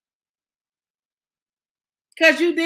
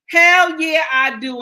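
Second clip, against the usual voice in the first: defiant shout; 5 semitones higher, 7 dB louder, slower than usual. Real, not acted. Defiant answer to critics.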